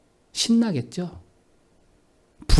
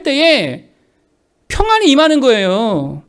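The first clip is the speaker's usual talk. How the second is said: loud, raised voice driving the point home; forceful preaching; 6 semitones higher, 6 dB louder than usual. Real, not acted. Pastor urging the church to work, forceful preaching. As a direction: preach it hard, drawing out key phrases.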